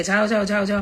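firm dismissive repeats; mild retold strict brush-off. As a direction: shoo him off sternly. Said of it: "તો strictly મેં કીધું ને".

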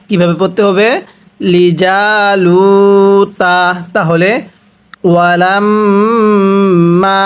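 slow, drawn-out chanted recitation; Quranic recitation. Acted. Teacher recites the verse for students to repeat, chanting slowly. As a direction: recite each word slowly for students to echo.

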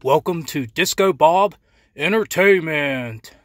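showman intro, drawing out the name; announcer voice. Acted. Opening show intro.

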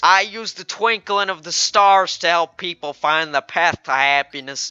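lightly put-on southern fortune teller; a hint of southern twang; weird southern accent. Fortune teller selling her powers, mock southern accent. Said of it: "weird-ass, uh, southern accent".

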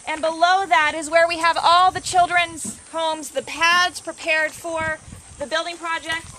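winded from walking uphill; breathing hard between words. Real, not acted. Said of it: "And I'm out of breath because".

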